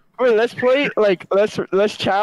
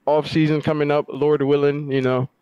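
chewing while talking. Real, not acted. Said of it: "You literally sound like you're eating right now".

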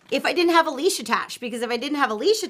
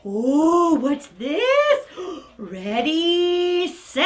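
playful gasp teasing dog; 3 semitones higher, much slower than usual. Real, not acted.

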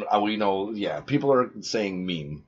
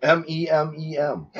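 laughing; 6 semitones higher than usual. Real, not acted. Spelling while laughing.

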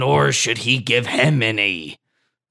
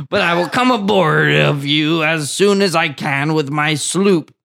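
pirate voice. Acted. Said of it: "They both have the same voice".

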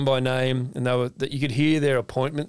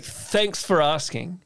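turned on charm; 5 semitones higher, much slower than usual. Retold or imitated. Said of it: "that's when I really turned it on".

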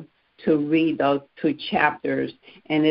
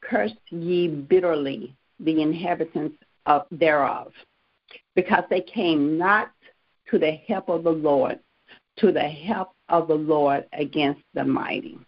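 scripture reading. Real, not acted. Reads King James verse aloud.

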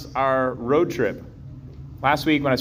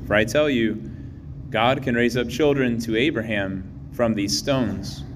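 Gospel reading. Real, not acted.

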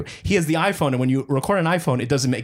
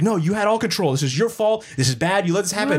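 higher-pitched mock scolding without volume; retold yelling; 5 semitones higher than usual. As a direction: lay blame, imitating an angry customer. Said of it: "She kept yelling at him".

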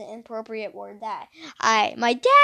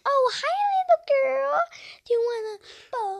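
high, sing-song voice; mocking voice to a little girl; 14 semitones higher than usual. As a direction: coo like talking to a little girl. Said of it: "I bet people were like".

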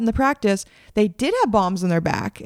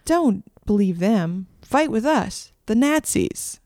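political attack ad; slower than usual. Retold or imitated. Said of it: "a political attack ad".

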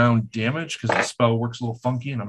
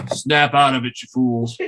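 badly faked Russian accent; terrible Russian accent; 4 dB louder than usual. Game master as a voice calling to charmed party, terrible Russian accent. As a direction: call it out in a bad Russian accent. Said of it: "in a terrible Russian accent".

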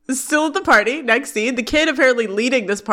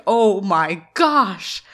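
mock freaked-out gasp; much slower than usual. Corey freaking out, voiced.

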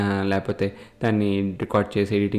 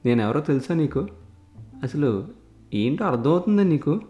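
angry threat; 5 semitones higher than usual. Acted. Politician threatens intruder in office.

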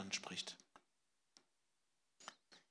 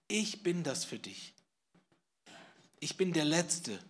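höher und lauter, feierlich ausgerufen; verkünde es mit Nachdruck; kräftig verkündend; 5 semitones higher, 6 dB louder than usual. Acted. Jesus wird predigend zitiert. (kraftvoll predigend)

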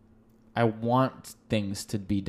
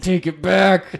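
loud demand; 7 semitones higher, 8 dB louder, slower than usual. Pretend. Mock demand to his co-host.

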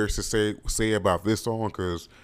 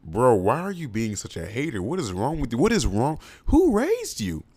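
indignant scolding; 3 semitones higher than usual. Retold or imitated. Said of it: "I was like".

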